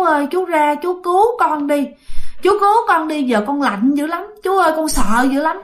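put-on high, frightened pleading girl's ghost; ghost's plea. Dead girl's ghost begging her uncle in a dream, frightened.

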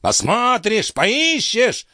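high mocking echo of the old man; mocking cry. A narrator's reading. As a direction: throw his words back at him. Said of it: "закричал он".

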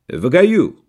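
«В гаю» с картавым р вместо «в раю»; картавое р в «гаю»; картавя. A narrator's reading. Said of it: "ответил Найтурс голосом чистым и совершенно прозрачным". (картаво, чистым голосом)

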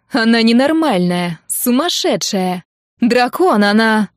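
громко, с нажимом; обругать соперницу; злые обвинения. Acted. Алина обвиняет Катю в драке. (громко и зло)

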